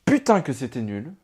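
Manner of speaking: disappointed verdict at normal volume; dismissive verdict. Acted. Telling viewers the film was rubbish, dismissive. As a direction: keep it level and let down. Contrasting verdicts, the bad one.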